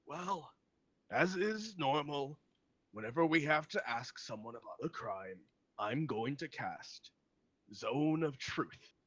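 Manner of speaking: lightly voiced old man, drawing out the words; older gentleman. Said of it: "he's an older gentleman, and he goes".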